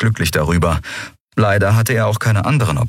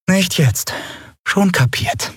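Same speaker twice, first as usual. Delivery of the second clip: higher mocking repeat of "Nicht jetzt", falling on nicht; mocking echo; 12 semitones higher, slower than usual. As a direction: parrot him back with a sulky tone. Lien mimics Kero's warning.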